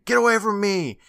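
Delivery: high, loud recap of a panicked cry; retold scream. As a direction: imitate a boy's startled yell. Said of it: "he turns screaming".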